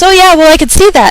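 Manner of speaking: high mocking coworker voice; dismissive mock coworker; imitating coworker. Voicing CSM.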